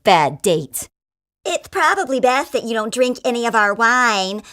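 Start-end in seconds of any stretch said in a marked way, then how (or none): 1.5-4.4 gay winemaker. Acted. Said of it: "one of the gay guys says".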